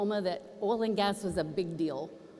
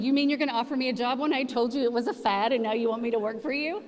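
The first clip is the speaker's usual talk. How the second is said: raised, louder disbelief rising at the end; can't believe the offer; incredulous; 3 semitones higher, 3 dB louder than usual. Retold or imitated. Trish answering the surprise job offer, incredulous.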